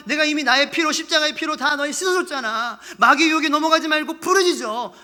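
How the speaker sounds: high, loud, urgent exhortation; forceful command. Acted. God commanding the guilty to cry out, forcefully. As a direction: drive it home as an order. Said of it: "명령하시는 거예요".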